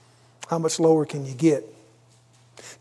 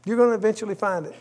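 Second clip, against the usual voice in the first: quick, higher repeat; 3 semitones higher, 3 dB quieter, much faster than usual. Shown as a demonstration. Preacher repeating the warning to his congregation, fast. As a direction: rattle off "You're gonna eventually find it." fast and higher.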